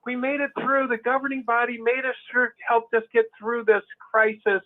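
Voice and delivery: a touch of relieved celebration, imitated; mock rejoicing. Speaking as congregants who came through the crisis, mock rejoicing. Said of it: "like they're so rejoicing".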